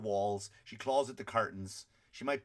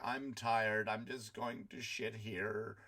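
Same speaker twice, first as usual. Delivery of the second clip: put-on slow, softer, weary old dog voice; tired old dog; 3 dB quieter, much slower than usual. Comic speaker voicing the old dog, slow and soft. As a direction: let it sag like an old dog giving up. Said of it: "an old one that's just going like".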